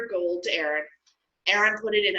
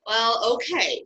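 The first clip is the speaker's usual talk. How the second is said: reluctant; 4 semitones higher, slower than usual. Acted. God reluctantly gives in.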